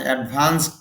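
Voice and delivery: অ্যাডভান্সড ending on a crisp t, not a d. Shown as a demonstration. Teacher explaining the ed ending to students, clear demo. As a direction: finish অ্যাডভান্সড with a clipped "ট" sound. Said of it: "ড মতো উচ্চারণ না হয়ে টর মতো হয়েছে".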